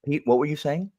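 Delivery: prim moderator voice. Pretend. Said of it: "toned down Alan".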